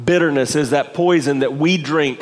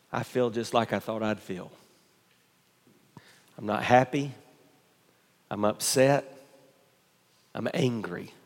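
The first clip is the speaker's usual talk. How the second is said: sulking Jonah; 3 semitones lower, 8 dB quieter than usual. Acted.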